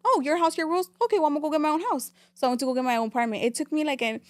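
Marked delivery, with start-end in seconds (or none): 0.1-0.9 higher, mocking throwback of mom's words; sarcastic echo. Daughter mocking mom's house rules, sarcastic high echo. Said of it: "I was like". 1.0-2.1 defiant retort. Retold or imitated. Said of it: "I was like".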